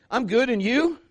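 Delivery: high, upbeat polite reply; chirpy. Acted. Preacher voicing the answer you don't get, chirpy. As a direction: answer brightly with a rising lilt.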